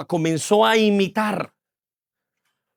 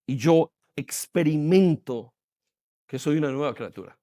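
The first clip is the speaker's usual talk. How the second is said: hushed confession; 6 semitones lower, 7 dB quieter than usual. Real, not acted. Pastor confiding to the church, softly hushed. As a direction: drop to a soft, low, slowed murmur.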